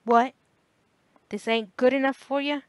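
a rough father's indignant snap; father snapping. A narrator's reading. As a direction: bark it at the bored teenager. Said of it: "his father would snap".

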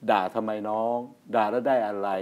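soft, low, unhurried calming reply; calm and slow. Retold or imitated. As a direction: talk him down gently, slowly. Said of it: "พูดช้าๆ อย่างเงี้ย".

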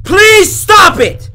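real pleading yell, high and loud; panicked gamer yelling at the screen; frightened shout. Real, not acted. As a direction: beg it to stop in fear. Scared by game.

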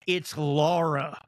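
mild mock stern It's Laura, slow; stern correction. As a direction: correct her slowly, a touch of menace. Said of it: "my mom goes".

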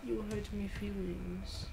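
put-on slow, whiny baby voice; childish baby voice. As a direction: pout it out like a hurt toddler. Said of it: "my childish baby voice".

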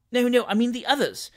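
high-pitched, flustered correction; bewildered. Acted. Muddled novice explaining which birds he meant, bewildered. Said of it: "said the bewildered Winkle".

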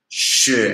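Xue drawn out, dipping low; "Xue" long, on a low dipping tone; third tone. Shown as a demonstration. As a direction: let "Xue" sink low in the voice. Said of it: "ada tiga".

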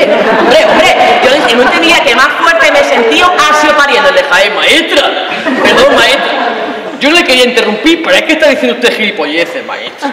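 put-on loud, cocky kid interrupting the teacher; loud Andalusian boy answering back; cheeky schoolboy.

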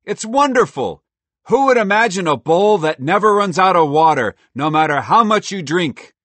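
loud, high delighted squirrel; a thrilled squirrel marvelling. Acted. Merle delighted.

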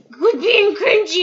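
lightly hammed-up critic; mocking critics. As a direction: imitate naggy commenters, drawn out. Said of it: "people are probably gonna be like".

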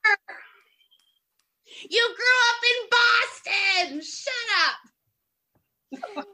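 put-on teasing old friend cracking up; laughing mock outrage. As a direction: call her bluff through laughter. Friends mocking her Boston roots.

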